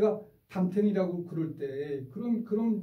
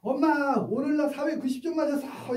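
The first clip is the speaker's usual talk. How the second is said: put-on high, bright kid voice bragging to mom; a child running in with good news; excited schoolkid boasting about a test score; proud child; 10 semitones higher, 3 dB louder than usual. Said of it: "애가 학교 갔다 시험 보는 날인데".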